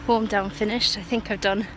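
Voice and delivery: breathless from the run; talking while still jogging; while running. Real, not acted. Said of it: "I was really struggling".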